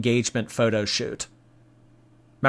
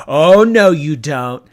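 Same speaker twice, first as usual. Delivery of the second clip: angry; 5 dB louder than usual. Retold or imitated. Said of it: "Amber Lynn was like".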